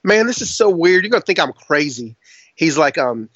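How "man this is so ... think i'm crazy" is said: lightly voiced redneck. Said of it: "you do a really good redneck".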